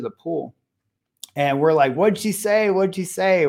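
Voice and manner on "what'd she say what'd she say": higher, eager mock pestering; all excited. Men at the pool asking the boy for news, excited. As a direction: press eagerly for the news, pitch up. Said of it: "We're, like, all excited".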